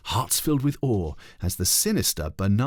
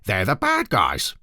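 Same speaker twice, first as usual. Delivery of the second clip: put-on slow patient little girl voice; patient explaining; 4 dB louder, slower than usual. A narrator's reading. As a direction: spell it out patiently to a friend. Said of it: "explained Ketchup Face patiently".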